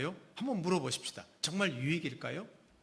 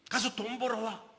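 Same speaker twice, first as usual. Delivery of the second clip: nagging command; 7 semitones higher than usual. Retold or imitated. Nagging to go earn money.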